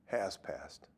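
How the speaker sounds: a hushed answer as she finally gets it; softly realising "Has passed"; quiet answer. Retold or imitated. Her soft realising answer.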